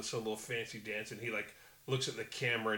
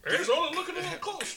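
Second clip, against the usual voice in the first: news anchor voice; 7 dB louder, faster than usual. Retold or imitated. Mocking a TV election call.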